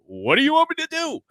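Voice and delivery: high, helpless mock whine; mock whiny boss. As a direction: play the boss as clueless and helpless. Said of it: "And Tony Khan said".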